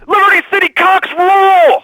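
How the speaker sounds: high, loud, slow stadium cheer; fan cheer. Acted. Caller cheering his team over the radio, drawn-out loud chant. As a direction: bellow it like a fan in the stands.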